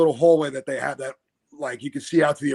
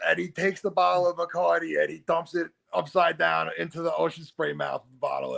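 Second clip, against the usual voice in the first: ordinary delivery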